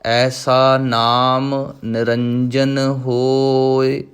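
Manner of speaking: slow, measured recitation of scripture; Gurbani recitation. Shown as a demonstration. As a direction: intone each line with devotion. Recites Gurbani lines in lesson. (ਗੁਰਬਾਣੀ ਦਾ ਸਹਿਜ ਪਾਠ)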